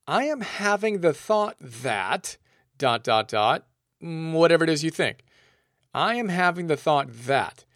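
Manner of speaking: slow, measured self-talk; calm deliberate demo phrase. Shown as a demonstration. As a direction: spell it out slowly to yourself. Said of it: "Now, say to yourself".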